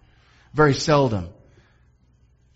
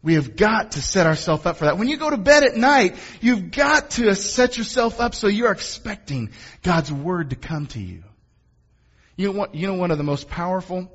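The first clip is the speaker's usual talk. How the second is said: worked-up preacher's urgency; real mounting enthusiasm; getting excited; 5 semitones higher than usual. Real, not acted. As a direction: urge them on, getting carried away. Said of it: "sorry, I'm getting excited".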